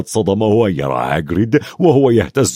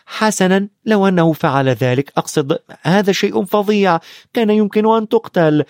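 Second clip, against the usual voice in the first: a touch of an outburst, higher; bursting out; 8 semitones higher than usual. Acted. Hermione bursts out at Ron and Harry, higher mild outburst. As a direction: Hermione blurting it out in alarm, mildly. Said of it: "وانفجرت هيرميوني".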